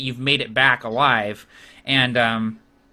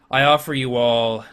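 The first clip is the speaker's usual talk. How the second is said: measured, formal warlord offer; magnanimous orc chieftain; 2 semitones lower than usual. Acted. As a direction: make the offer gravely, pausing midway.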